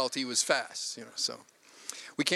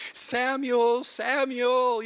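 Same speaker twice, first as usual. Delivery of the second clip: put-on raised, higher calls for a lost child; calling out; 9 semitones higher, 5 dB louder, much slower than usual. Frantic parent calling a missing son in the mall, loud. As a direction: call his name across the mall.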